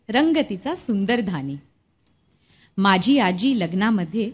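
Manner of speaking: measured, lilting verse reading with pauses between phrases; poem recitation. Acted. Reciting Shanta Shelke's poem about grandmother's Paithani to guests, poem recitation.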